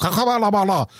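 mock foreign calling out; mock foreign gibberish. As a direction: imitate a shout in a foreign tongue. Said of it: "ropade han till någon på något språk".

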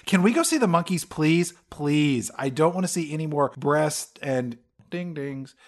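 lightly voiced kid whining please; begging kid. Child begging to leave and see monkeys, mock whine. Kids in the film, voiced comically.

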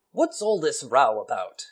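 slow, lightly put-on English accent; a hint of an English gentleman's accent. Chicago card player interrupted at bridge, English accent. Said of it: "has an English accent".

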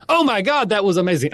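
high, hammed-up amazement; gushing onlooker. Onlooker reacting to the dance-off, over-the-top amazed. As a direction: gasp out praise like an awestruck fan.

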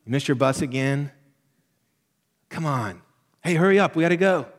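rising to a mock yell at hurry up; busy mom nagging kids out the door. Mother nagging her girls to catch the bus, mock yell. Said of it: "here's things that I heard myself say".

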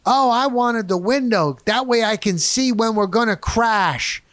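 mock woman's voice, high and carrying. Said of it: "And she said this".

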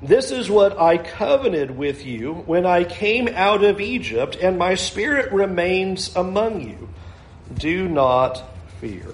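measured, solemn Bible reading with falls on Lord; scripture reading. Acted. Pastor reads Haggai aloud, solemn and measured. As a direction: read the prophet's words to the congregation.

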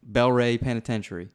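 attempted Louisiana Southern accent; amateur Louisiana twang. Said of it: "in a Louisiana accent".

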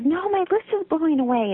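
a hint of a panicked storybook toad; Toad upset. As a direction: read it as the flustered Toad.

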